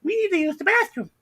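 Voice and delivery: high-pitched imitation of a lady customer; urgent customer. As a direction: put on a high, pleading customer voice. Lady asking, acted in retelling.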